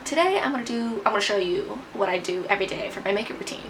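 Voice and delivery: put-on vlog intro voice. Real, not acted. Vlogger introducing her makeup routine to internet friends, slightly put-on voice. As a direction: greet viewers in a slightly affected presenter voice. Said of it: "Why am I talking like this".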